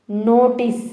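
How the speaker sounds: "నోటీస్" with a clean final s; model pronunciation. Shown as a demonstration. Teacher showing learners how to say it, careful "నోటీస్". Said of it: "అని పలకాలి".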